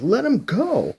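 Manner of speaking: high, loud command; shouted order. Acted. Heroine ordering Shang-Chi to release him, sharp shout. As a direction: bark the order to let go.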